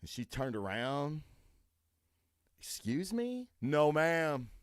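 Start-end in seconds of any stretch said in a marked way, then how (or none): 2.6-3.5 indignant woman. Retold or imitated.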